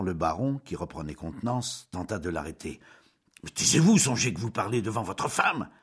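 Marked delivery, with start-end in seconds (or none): 3.4-5.7 stern command. Acted. Baron trying to stop Julien.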